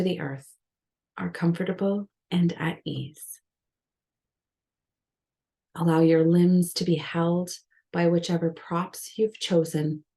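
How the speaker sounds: measured meditation guidance with long pauses; unhurried yoga nidra guidance, leaving space between phrases; guided meditation. Real, not acted. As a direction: guide the listener gently into rest, phrase by phrase. Leads a guided relaxation.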